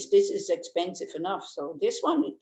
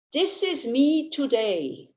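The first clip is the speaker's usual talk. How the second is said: mock selfie caption; 5 semitones higher, slower than usual. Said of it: "Make a selfie next time when you're angry".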